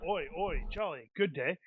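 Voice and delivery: bad attempt at a Cockney British accent; a mock London accent, lightly voiced; bad Cockney impression. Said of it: "That's the extent of my accent impression".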